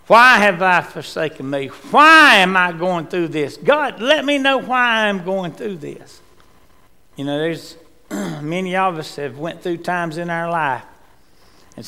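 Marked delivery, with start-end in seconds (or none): 0.1-6.2 anguished why. Acted. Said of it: "as Jesus says".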